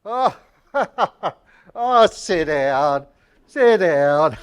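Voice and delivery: laughing and slowed down. Acted. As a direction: laugh through it. Laughing, dropping the act.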